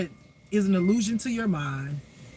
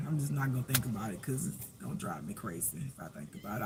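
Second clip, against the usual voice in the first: much softer, lower, almost to yourself; quiet inner voice; 10 semitones lower, 13 dB quieter, faster than usual. Retold or imitated. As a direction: murmur it like a private resolution. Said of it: "I'll just be like".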